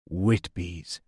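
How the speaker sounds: low, soft admiration; quietly impressed, voice dropped low; admiring. A narrator's reading. Wounded man grinning at his rescuer, softly admiring. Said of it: "he said admiringly".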